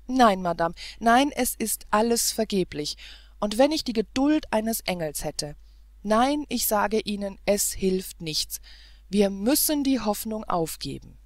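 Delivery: loud, insistent refusal, slowing on es hilft nichts; loud despair. Acted. Prince insisting to the governess, loud and despairing. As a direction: hammer home that it is hopeless. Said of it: "stürzte der Prinz atemlos".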